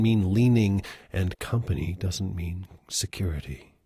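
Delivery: measured, earnest poem recital; gentle reading of a poem. Acted. Reads a requested poem.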